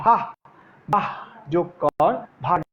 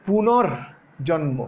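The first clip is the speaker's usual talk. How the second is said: পুনর্জন্ম drawn out slowly, syllable by syllable; teacher slowing পুনর্জন্ম for the class; slow spelled-out demo; much slower than usual. Shown as a demonstration. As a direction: break পুনর্জন্ম slowly into its parts. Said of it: "খুব খেয়াল করো কেমনে করলাম".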